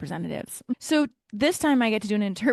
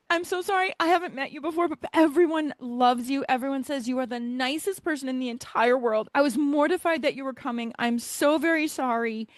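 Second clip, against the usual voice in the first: higher-pitched, mildly hammed-up apology; mock-mortified apologizing, high at the start; gushing apology; 4 semitones higher than usual. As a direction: plead for forgiveness in a raised voice. Retold gushing apology to councilwoman.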